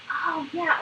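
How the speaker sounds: high, eager response; really into it. Shown as a demonstration. Coach models responding to child leaning over, really into it. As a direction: draw it out with keen interest. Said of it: "try to really get into the interaction".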